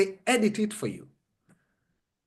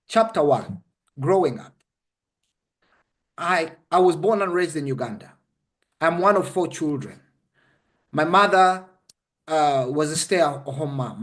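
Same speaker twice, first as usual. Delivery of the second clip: lower, matter-of-fact demo of dictating a memoir; sample book dictation; 4 semitones lower than usual. Shown as a demonstration. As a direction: recite it to camera, pitched a little lower. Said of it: "and I say".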